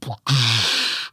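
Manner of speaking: throaty noise of a rock hitting water; imitated rock splash. Hunter showing a rock thrown in the creek, imitated splash. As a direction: mimic a big splash with the mouth. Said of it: "I hear a big rock go".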